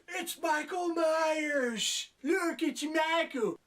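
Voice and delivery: high, loud, slow drawn-out alarm; mock alarmed shout. Townsperson spotting the inmate, shouting. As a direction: cry out that the killer is here. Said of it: "someone goes".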